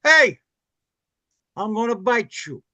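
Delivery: lightly voiced Robert De Niro; De Niro impression. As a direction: play the shark as De Niro. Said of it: "Robert De Niro would play the shark".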